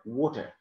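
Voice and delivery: American "water" ending in a sounded r; "water" with an American final r; American pronunciation. Shown as a demonstration. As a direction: say "water" the American way, "waw-ter". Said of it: "the American people".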